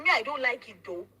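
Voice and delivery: loud mock parent line again; repeated mock parent. Host repeats the parent's words to guest, mock voice. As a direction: echo the parent's dismissive line. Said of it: "repeated quote".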